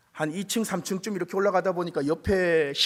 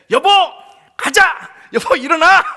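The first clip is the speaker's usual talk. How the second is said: loud, high, bursting with eagerness; excited shouting husband; 12 semitones higher, 12 dB louder than usual. Retold or imitated. Old man shouts at wife to get up. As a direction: yell it like he's just won. Grandpa kicks door, wakes wife.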